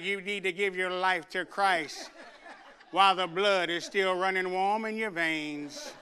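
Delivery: slow, low, a touch of preacherly gravity; solemn old reverend. Retold or imitated. Reverend Syrup warning the congregation, slow and low. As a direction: drag it out like an old revivalist. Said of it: "he'd be like".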